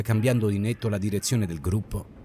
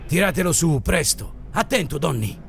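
urgent warning in a higher voice; allarme concitato; 5 semitones higher than usual. Acted. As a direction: call for help as someone slips. Donald sta cadendo dal dirupo. (allarme urgente, voce più alta)

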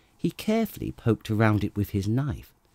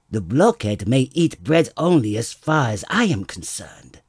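wife muttering to herself; 5 dB louder than usual. Acted. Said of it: "said his wife to herself".

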